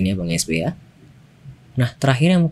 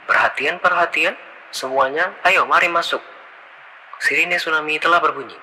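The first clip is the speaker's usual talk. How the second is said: announcement filter; 4 semitones higher than usual. Shown as a demonstration.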